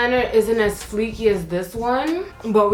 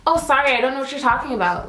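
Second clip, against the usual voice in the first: a hint of polite fake work talk, quick; lightly put-on customer-service politeness; 4 semitones higher, faster than usual. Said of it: "your little fake little talk when you're at work".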